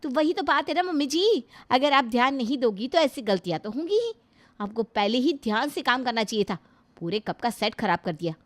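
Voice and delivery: scolding daughter-in-law. Acted. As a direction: tell her off for breaking the cup.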